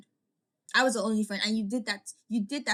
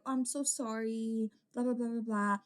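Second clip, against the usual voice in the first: mock sorry. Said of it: "trying to be like".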